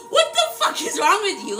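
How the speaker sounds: high-pitched question through laughter; laughing disbelief. Retold or imitated. Retelling how she laughed at a guy's come-on, laughing disbelief. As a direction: laugh while scolding, appalled. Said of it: "I laughed so hard I couldn't stop".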